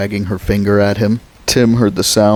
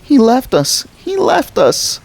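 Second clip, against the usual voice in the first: put-on screaming child. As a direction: scream it over and over. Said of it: "she had started to scream".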